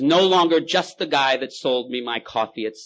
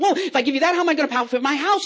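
much higher, louder whine; pleading drunk; 5 dB louder than usual. Acted. Drunk pleading for his house, much higher. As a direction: beg to keep the house. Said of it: "He said".

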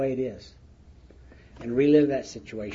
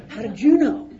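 higher and louder, laughing through it; laughing question; 8 semitones higher, 8 dB louder than usual. Retold or imitated. Asking Bruce how he knew, laughing through the question. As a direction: ask it while cracking up.

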